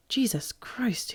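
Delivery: breathless, slow, stunned whisper. A narrator's reading. Richard sees a man fall past, whispering. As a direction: barely breathe the words out. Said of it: "he whispered".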